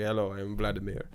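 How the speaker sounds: put-on a half-hearted Russian accent on a greeting; bad Russian accent. Imitating a Russian man introducing himself, faint Russian accent. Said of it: "It's a bad accent".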